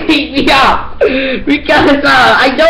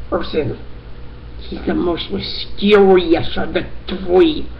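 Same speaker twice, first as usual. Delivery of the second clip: a touch lower and softer, like a serious detective; odd detective voice; 4 semitones lower, 4 dB quieter than usual. Acted. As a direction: play it gravely mysterious, but lightly. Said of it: "why are you talking like that?".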